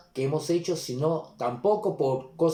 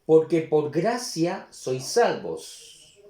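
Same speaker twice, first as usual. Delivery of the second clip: slow, firm, a little louder reading; slow scripture reading; 3 semitones higher, 3 dB louder, much slower than usual. Shown as a demonstration. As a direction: lay out each word of the verse slowly. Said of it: "y el nueve también". (lectura lenta y firme del versículo)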